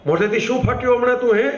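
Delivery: acted irritated rebuke; gruff scolding. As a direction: scold him with mock annoyance. Valjean scolds the boy in the story.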